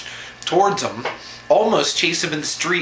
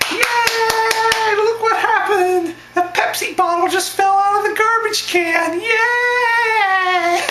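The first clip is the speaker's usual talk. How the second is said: very high, loud falsetto with stretched-out yays; squeaky puppet cheer; 5 dB louder, slower than usual. Pretend. Cheering a bottle fallen from the garbage, squeaky puppet falsetto. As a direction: celebrate in an over-excited puppet squeal.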